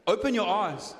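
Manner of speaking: low, casual command; masseuse's order. Retold or imitated. Comic imitating the masseuse telling him to turn, low and casual. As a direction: drop into the curt masseuse. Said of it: "She goes".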